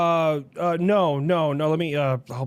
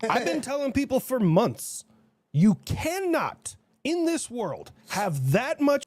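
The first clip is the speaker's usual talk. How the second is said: put-on Russian accent; 7 semitones higher than usual. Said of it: "Was that supposed to be Russia?".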